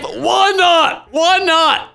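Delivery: loud, high repeated plea; a pushy guy begging loudly; mock pleading. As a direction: whine the question at her twice. Reading chat lines aloud.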